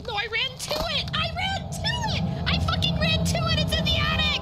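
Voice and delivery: high, loud panicked yell. Real, not acted. Panicked after ghost hunt.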